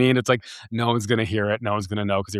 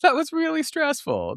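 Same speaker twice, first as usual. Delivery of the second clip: high-pitched giggle through the words; laughing; slower than usual. Real, not acted. Vlogger laughing about her gut troubles, high giggly voice. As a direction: laugh it out, embarrassed by the memory. Laughing at own embarrassing story.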